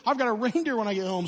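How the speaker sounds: put-on a kid who just heard he's getting a reindeer; excited kid. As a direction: gush it fast like a thrilled five-year-old. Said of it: "I'm like".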